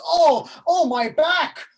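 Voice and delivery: high, loud aching groans; groaning in pain. Acted. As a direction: moan about an aching back. Nurse groans about her back.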